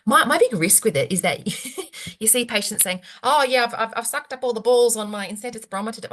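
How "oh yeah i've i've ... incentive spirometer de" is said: hammed-up broad Australian accent, a bit higher; a jokey, overdone Australian patient voice; terrible Australian accent. Mimicking an Australian patient bragging about the spirometer, in a hammed-up Australian accent. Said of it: "I'm doing a terrible Australian accent here".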